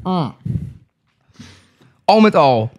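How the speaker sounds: sipping water while talking; while sipping a drink. Real, not acted. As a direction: talk right after a sip of water. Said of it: "Ik heb ook, ook even een slokje water". (al drinkend, met een slokje water)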